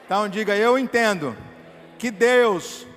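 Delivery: loud, drawn-out declaration for the church to repeat; the preacher has the church repeat after him, loud and slow; full-force preaching. Acted. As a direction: lead the room in a loud vow. Leads congregation in declaration.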